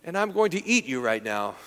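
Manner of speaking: a hammed-up hungry wolf licking his lips. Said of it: "and he says".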